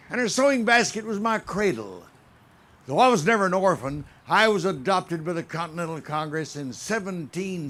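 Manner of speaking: solemn speech in the flag's voice; proud, stately flag monologue; patriotic recitation. Acted. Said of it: "as I bring you a message from the very heart of Old Glory".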